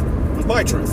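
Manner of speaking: sneering whispered parody of "It was my truth"; mock whisper. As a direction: hiss "It was my truth" as a mocking excuse. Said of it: "it was real to me".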